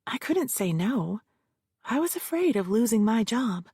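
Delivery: hint of a defensive witness; witness Josephine. Witness answers the lawyer, lightly voiced and nervous. Josephine testifying under cross-examination.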